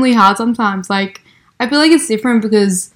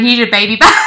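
laughing handback; 3 dB louder than usual. Retold or imitated. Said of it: "I'm just like".

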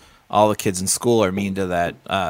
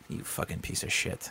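whispered, much softer curse; mock whispered insult; 14 dB quieter than usual. Comedian cursing the ungrateful wrestler, whispered. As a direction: hiss it under your breath. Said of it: "I'm like".

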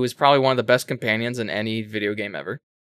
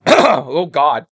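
coughing fit; 8 semitones higher, 8 dB louder than usual. Real, not acted. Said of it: "I'm not getting choked up".

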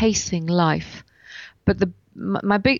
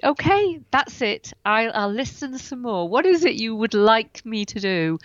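surrendering to the universe; 3 semitones higher than usual. Retold or imitated. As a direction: give in and ask what's wanted. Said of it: "And I just stood there and went".

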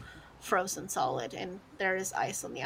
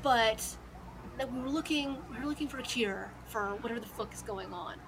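nervous thug; 3 semitones higher, 4 dB louder than usual. Acted. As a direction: ramble your excuses, rattled. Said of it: "He said".

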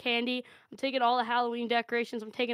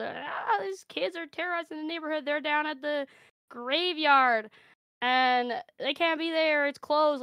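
caller complaining; 5 semitones higher than usual. Retold or imitated. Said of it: "The cops get called".

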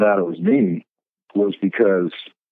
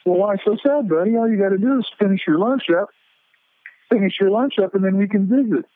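put-on raised, soothing Santa talking to a child; gentle Santa voice; 11 semitones higher than usual. Santa comforting the sad boy, raised soothing voice. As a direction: coax him kindly as Santa. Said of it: "And I said".

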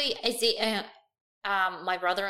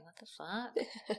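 mock bewildered; 10 dB quieter, much slower than usual. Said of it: "looking at us like".

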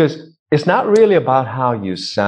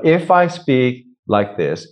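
scratchy voice; slower than usual. Shown as a demonstration. Voice coach demonstrating how little exhale sounds, scratchy. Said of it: "a bit of a scratchy thing".

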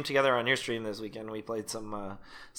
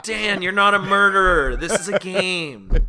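louder, slower pleading protest; loud mock pleading; 6 semitones higher, 5 dB louder than usual. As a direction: beg him to stop, half laughing. Acted pleading with Dan.

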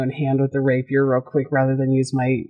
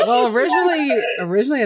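laughing; 9 semitones higher, much faster than usual. Real, not acted. Laughing at the joke.

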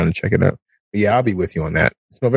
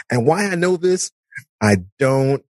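grumbling inner voice, lightly voiced; 4 semitones higher than usual. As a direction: talk like your own inner thoughts. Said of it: "You sound like my inner voice".

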